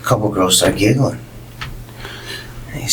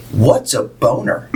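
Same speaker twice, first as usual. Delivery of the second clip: slow, laughing through it; can't hold back the laugh; 3 semitones higher, slower than usual. Real, not acted. Telling the story's punchline, slow and laughing.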